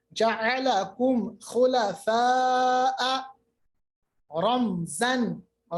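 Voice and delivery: جَعَلَكُمْ خُلَفَاءَ recited slowly, long held vowel; clearly sounded mim. Shown as a demonstration. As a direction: sound the mim in رَمْزًا, then move on. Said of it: "دیکھیے میم کی آواز نکالی". (میم ظاہر کر کے ٹھہری ہوئی تلاوت)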